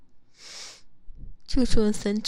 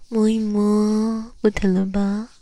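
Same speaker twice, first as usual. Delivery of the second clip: soothing; 5 dB louder, slower than usual. Acted. Soothing after teasing punishment.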